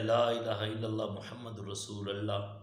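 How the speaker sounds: wrong vowel in "رسول اللہ", "a" for "u"; mispronounced kalima. Retold or imitated. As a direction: imitate a careless reciter, ending "رسول اللہ" as "rasul-alla". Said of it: "کوئی آدمی پڑھتا ہے".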